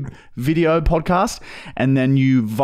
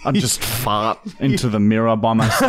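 laughing. Real, not acted. Cracking up at own joke.

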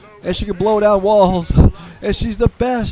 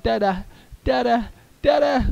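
put-on higher childlike calling of dada; little girl voice; 7 semitones higher than usual. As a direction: voice the eager toddler daughter. She's like.

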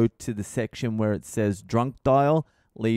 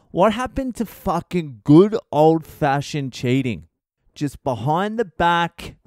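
mock outrage rant; 6 semitones higher than usual. Real, not acted. Comic rant at swingers.

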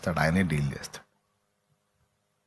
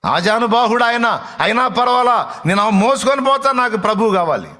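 impassioned insistence; 7 semitones higher, 3 dB louder than usual. Acted. Voicing Mary's insistence on carrying him.

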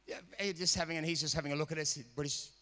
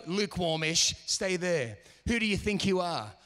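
louder mocking discouragement; voice of the enemy; 3 semitones higher, 4 dB louder than usual. The devil holding back believers, louder mocking coax. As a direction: coax them to stay put, sneering. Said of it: "just like the enemy who says".

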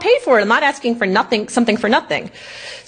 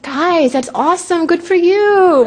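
sarcastic mock praise; 8 semitones higher, 3 dB louder, slower than usual. Sarcastic praise of New York.

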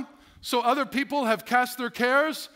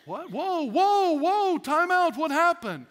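higher, slow startled whoa, time out; shocked reaction; 7 semitones higher, slower than usual. Retold or imitated. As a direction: play the bystanders caught off guard. Others shocked by the outburst.

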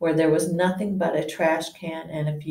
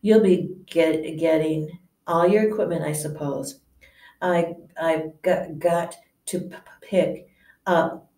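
nervous stammer. Acted. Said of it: "he looked terrified".

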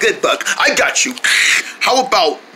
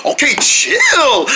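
urgent shout; 7 semitones higher, much slower than usual. Acted. Kids panicking, calling out.

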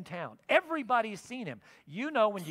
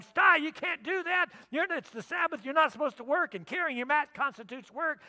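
high, loud yell to stop; 7 semitones higher, 4 dB louder than usual. Retold or imitated. Onlooker yelling at the man carrying his mat on the Sabbath. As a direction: shout him down over the rule. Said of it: "Somebody yells at him".

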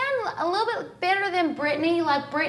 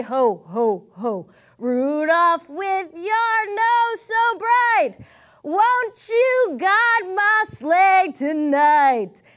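lightly voiced Santa; much slower than usual. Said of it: "Santa came to say".

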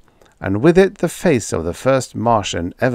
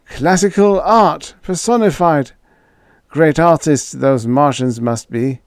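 put-on pompous old boss; 7 semitones higher, 5 dB louder than usual. A narrator's reading. Fendler recovering, pompous.

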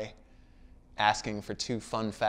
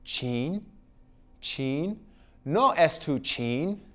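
half-hearted gibberish from a school play, rising at each end; mock fake Chinese lines; 4 semitones higher, much slower than usual. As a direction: retell the made-up noises lightly. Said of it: "what I ended up saying was".

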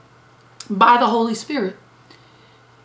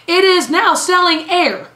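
amazed punchline; 7 semitones higher, 4 dB louder than usual. Real, not acted.

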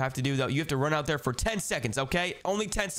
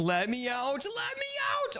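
yelling to be let out; 14 semitones higher, slower than usual. Acted. Locked in his bedroom.

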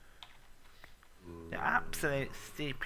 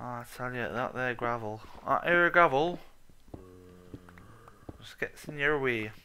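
mock rural accent. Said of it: "ever do my accents".

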